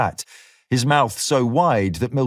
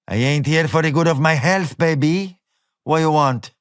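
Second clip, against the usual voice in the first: a lightly voiced sassy barmaid, raised pitch; tough barmaid; 4 semitones higher than usual. A narrator's reading. Barmaid sizing up a stranger, lightly sassy. Woman at the bar answers.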